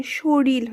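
শরীর said as shoril, ending in l; final l. Shown as a demonstration. Teacher explaining dissimilation, শরীর pronounced shoril with final l. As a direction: say শরীর with an l replacing the last r. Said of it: "ল আসছে".

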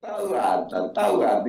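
ordinary delivery

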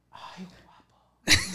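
drawn-out flirty coo; slow flirty coo. Retold or imitated. Gay passenger cooing at driver's neck, slow and flirty. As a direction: stretch it out like a tease. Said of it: "Así me hace".

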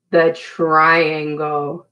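slow, drawn-out gasping reveal; mock-amazed reveal. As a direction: gasp as if it's a big surprise. Revealing last shape to kids.

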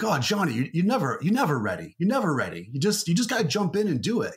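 hammy Boston mentor urging someone on; terrible Boston accent. Retold or imitated. Creative director advising Johnny about starting a family, terrible Boston accent. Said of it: "that was my terrible Boston accent".

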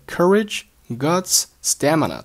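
"courage", "guts", "stamina" each punched, set apart; heavy stress. Shown as a demonstration. Teacher marking key words for learners, "courage", "guts", "stamina" stressed. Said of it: "都是重读，咱们放慢语速，提高音量".

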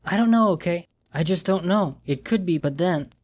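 she's losing her nerve; frightened girlfriend. Acted. Girlfriend on phone admitting she's scared, panicky.

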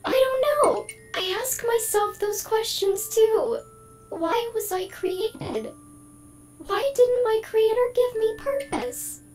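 AI Emily losing composure under questions; rising stress. Acted. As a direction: spiral into anxious questions. AI voice getting stressed.

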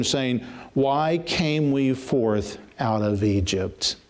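quick at first, then dragging out each phrase; fervent scripture reading. Acted. Preacher reading God's rebuke, rising and slowing. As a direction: build the verse like a sentence being passed.

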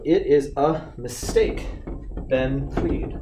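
"it is a mistake," read slowly, the "a" kept short and light; slow corrected reading. Shown as a demonstration. Teacher reading the corrected sentence to students, slowly. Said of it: "to a".

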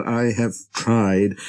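plain reading voice

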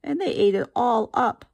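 high, squeaky little cub; high squeaky baby bear voice. A narrator's reading. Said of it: "her high squeaky voice".

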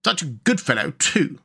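mildly musing otter; lightly acted thoughtful remark; reflective. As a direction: say it as a passing reflection, pitched a little up. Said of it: "remarked the otter reflectively".

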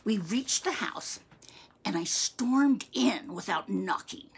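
lively, theatrical storytelling; story narration. A narrator's reading. Reading a tale of childhood outrage to listeners, animated narration. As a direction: read it with relish, leaning on the big words.

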